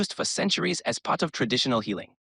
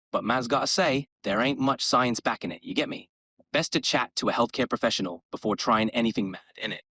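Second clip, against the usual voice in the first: put-on East London roadman accent. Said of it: "in an East London roadman accent".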